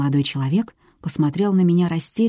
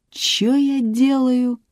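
very slow, high, stretched challenge; menacing disbelief; 9 semitones higher, much slower than usual. A narrator's reading. Policeman slowly rises to face the woman, menacing disbelief. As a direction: draw it out high as a threat.

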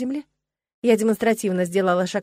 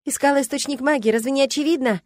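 raised-pitch irritated retort; testy, higher-voiced comeback; 6 semitones higher than usual. A narrator's reading. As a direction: answer as if pestered. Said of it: "раздражённо ответила я".

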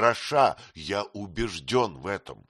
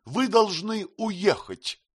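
urgent plea; 10 semitones higher, slower than usual. A narrator's reading. Kate pleading him to leave.

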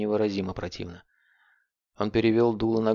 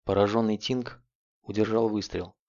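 plain reading voice

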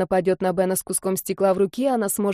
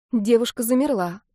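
ordinary delivery

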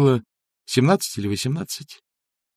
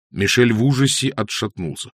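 plain reading voice

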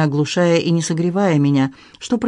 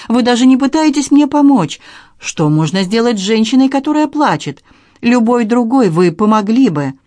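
louder, higher desperate accusation; tearful outburst; 6 semitones higher, 5 dB louder than usual. A narrator's reading. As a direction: hurl the reproach at him through tears. Tearful quarrel, accusing him. (отчаянный упрёк сквозь слёзы)

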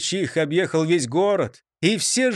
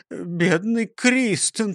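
sad; 3 semitones higher, much slower than usual. Acted. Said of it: "печально сказал Ниса Чих".

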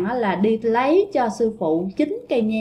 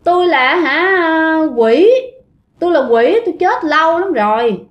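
put-on playful childlike ghost; 3 semitones higher than usual. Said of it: "giỡn giỡn như nít vậy các bạn". (giọng con quỷ cà rỡn như con nít, cao hơn)

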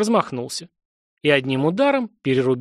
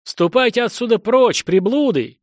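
loud, higher shout to drive them off; shouting from the window; 8 semitones higher, 4 dB louder than usual. A narrator's reading. Gatekeeper shouting at outcasts from the tower window, loud and high. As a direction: bellow down from the tower, chasing strangers away. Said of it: "кричал из окна".

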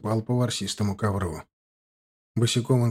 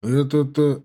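grumbling; 2 semitones higher, 3 dB louder than usual. Acted. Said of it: "снова буркнул Будимир".

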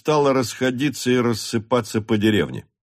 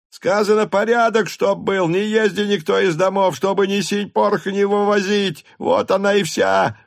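shouting peasant; 10 semitones higher than usual. A narrator's reading. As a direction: shout it up at the top of the voice. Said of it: "кричал другой".

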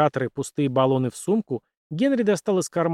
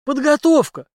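smirking; 13 semitones higher, 7 dB louder than usual. Acted. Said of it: "усмехнулся экс-капитан".

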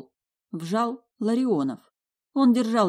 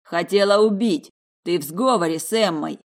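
loud furious yell; angry accusation; 6 dB louder than usual. Acted. Vadim poking Dasha, loud angry yell. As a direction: jab the words at her.

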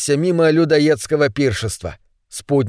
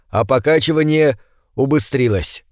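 ordinary delivery, nothing marked

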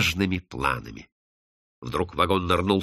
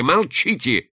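raised, higher sharp command; moderately raised, forceful order; shouted order; 6 semitones higher, slower than usual. Acted. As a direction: cry out to silence her. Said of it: "крикнул он".

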